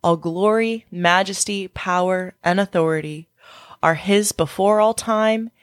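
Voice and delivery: measured, phrase-by-phrase prayer reading; scripture prayer. Acted. Closing the podcast by praying scripture with listeners, measured prayer reading. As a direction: read praise aloud with deliberate pauses.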